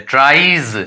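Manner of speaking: ट्राइज with an ee glide before a buzzed z; EE sound, final Z. Shown as a demonstration. Teacher points out the ee sound, ट्राइज ending in ee-z. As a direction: let ट्राइज glide through ee into z. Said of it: "ई sound आ रहा है".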